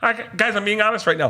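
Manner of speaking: high, youthful voice; younger high voice. Real, not acted. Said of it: "you can hear how young you are here".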